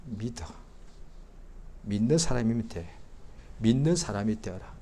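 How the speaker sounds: soft, tender reassurance; gentle invitation. Retold or imitated. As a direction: invite them kindly, no pressure. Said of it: "이러신 분이 아니라".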